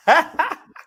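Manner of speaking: high loud burst of laughter; big laugh. Real, not acted. Friend cracking up at her rant, loud high laugh. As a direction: let a full laugh out.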